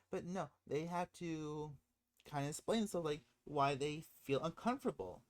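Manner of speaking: ordinary talk, nothing marked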